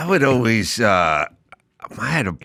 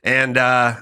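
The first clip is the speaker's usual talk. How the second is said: boss's orders; 6 semitones higher than usual. Retold or imitated. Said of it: "he goes".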